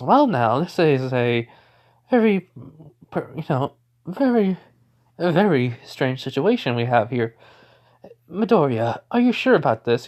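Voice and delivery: high, excitable little-principal voice, jumping up on very; Nezu voice. Acted. Nezu asks Midoriya if he is sure, voice jumping high. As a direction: Nezu squeaking up in surprise at the odd situation. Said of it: "And so Nezu just says".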